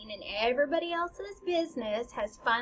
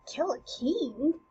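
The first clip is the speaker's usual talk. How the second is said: puzzled queen; 2 semitones higher, slower than usual. Acted. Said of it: "the queen is like".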